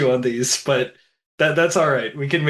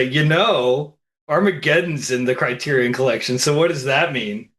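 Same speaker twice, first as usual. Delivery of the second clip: lightly nasal, sneering skeptic; a touch of a nasal troll. Retold or imitated. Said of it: "in quite so nasally a voice as I just said it".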